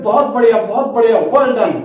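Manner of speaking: pleased, lively praise; happy cheer. Shown as a demonstration. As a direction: cheer like after a big hit. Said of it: "कैसे कहते हैं".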